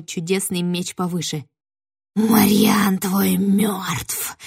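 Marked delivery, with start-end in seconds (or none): 2.2-4.4 very slow breathy whisper; eerie whisper. Acted. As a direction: hiss the words slowly. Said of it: "верещала ведьма".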